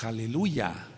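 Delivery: "aleluya" said slowly, ending clearly in YA; the proper form, "aleluya"; correct aleluya. Shown as a demonstration. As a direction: model the right "aleluya". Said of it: "decimos aleluya".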